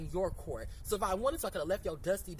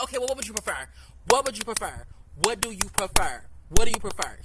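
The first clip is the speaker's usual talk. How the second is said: building retold yell; 12 dB louder than usual. Retold argument, repeating herself louder.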